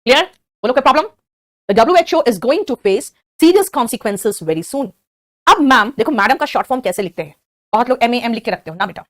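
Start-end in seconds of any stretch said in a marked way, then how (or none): 1.7-4.9 stretched word by word; slow model sentence. Shown as a demonstration. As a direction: say it slowly so they follow. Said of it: "देखो ध्यान से".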